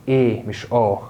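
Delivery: "ايه" as a long eh, against "اه"; "eh", not "ah". Shown as a demonstration. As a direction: contrast "ايه" slowly with the wrong "اه". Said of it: "حرف ده بينطق". (ايه بإمالة، مش اه)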